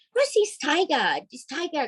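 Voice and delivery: put-on a gentle, curious old woman asking; elderly lady. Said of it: "an Asian lady in her late seventies".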